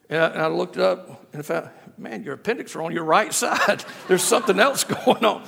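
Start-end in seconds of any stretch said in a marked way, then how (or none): 2.0-5.4 laughing through the discovery; chuckling at his own mistake. Real, not acted. Preacher laughs at his appendix mix-up to congregation.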